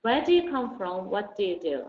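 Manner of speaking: Where do you come from? and What do you do? both ending with the voice going down; falling questions. Shown as a demonstration. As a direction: model the falling tune for the class. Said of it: "Doesn't go up".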